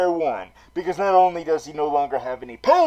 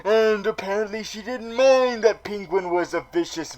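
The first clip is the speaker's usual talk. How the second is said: ordinary talk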